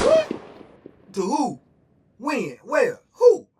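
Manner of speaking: rapid furious shouts, very high and loud; snapping in rage. Retold or imitated. Hearing the DC threat, he snaps and yells furiously. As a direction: fire off each question like a threat. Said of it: "I snapped".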